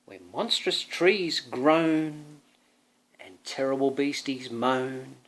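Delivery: put-on slow, spooky read-aloud for a child; storybook reading. Parent reading a birthday story to son, storybook voice. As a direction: draw the child into the dark forest.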